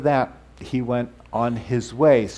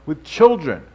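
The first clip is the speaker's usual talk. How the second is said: higher-pitched acted scolding; mock rebuke; 5 semitones higher, 3 dB louder than usual. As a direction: imitate disciples warning people off. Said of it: "they rebuked the people".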